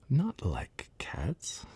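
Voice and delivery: shrill, passionate and slow; indignant shrill cry. Acted. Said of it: "in a shrill, passionate voice".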